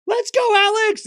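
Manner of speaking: high, loud imitation of a crowd shout; mock heckler yell. Commentator mimics a fan yelling at Parks, mock heckler yell. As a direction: yell it out like a fan, half laughing. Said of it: "somebody yells out".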